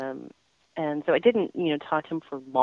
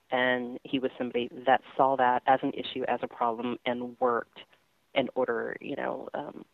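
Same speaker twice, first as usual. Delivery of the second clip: really choked up, voice sinking and halting; 2 semitones lower than usual. Real, not acted. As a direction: falter and trail off as emotion catches you. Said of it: "I'm getting a little choked up".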